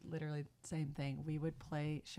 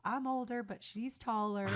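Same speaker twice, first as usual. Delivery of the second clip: sister's stage joke; 3 semitones higher than usual. Retold or imitated. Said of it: "And she'd go".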